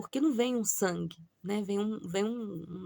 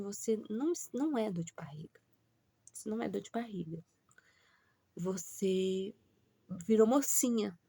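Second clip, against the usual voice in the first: delicate mum. Retold or imitated. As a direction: break it to her gently, hushed. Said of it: "falar assim com toda a delicadeza pra filha".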